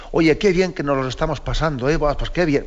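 mock cheerful, meaning the opposite; ironic remark. Shown as a demonstration. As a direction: fake enthusiasm about a boring study session. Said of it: "Bueno, pues eso es una ironía".

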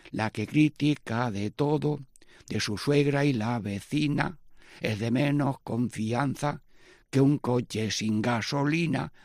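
slow, rhythmic rhyming recitation; slow rhymed ditty; folk verse. Acted. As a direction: recite the ditty in a steady beat.

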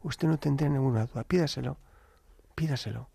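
tender, softening almost to a whisper; very sweet voice. Retold or imitated. Delivery man urging priest to ask, sweet and hushed. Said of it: "Con una voz muy dulce".

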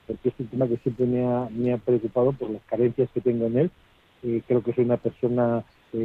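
faint caller far from the mic; phone held away. Real, not acted. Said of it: "se te oye muy bajito".

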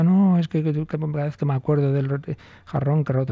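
put-on a little boy upset over the vase; tearful child. Child crying over broken vase.

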